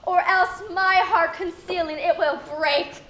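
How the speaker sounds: overacted stage speech, stretched on anger; milk every word for drama; hammy Shakespeare.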